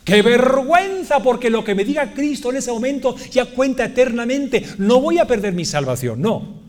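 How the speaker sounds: fervent pulpit delivery, stretching key words; impassioned preaching. Real, not acted. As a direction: preach it with full conviction. Preaches at full force.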